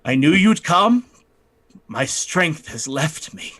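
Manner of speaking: a dying man's last words. Acted. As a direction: gasp it out as the life drains away. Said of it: "and he says".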